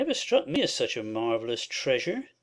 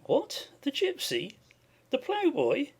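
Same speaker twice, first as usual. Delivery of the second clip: higher, startled master asking in disbelief; surprised cry; 5 semitones higher, slower than usual. Acted. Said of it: "he cried".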